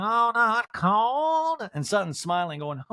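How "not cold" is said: shivering. Retold or imitated. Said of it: "shivering, going".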